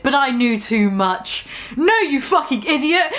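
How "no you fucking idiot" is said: mock shout. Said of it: "I shouted".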